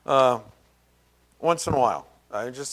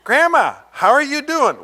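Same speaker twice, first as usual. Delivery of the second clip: high, louder mock sweet question; cousins asking grandma; 10 semitones higher, 6 dB louder than usual. Preacher mimics cousins greeting grandma, high sweet mock. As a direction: sing it up like an eager grandchild. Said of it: "my cousins would sit there and go".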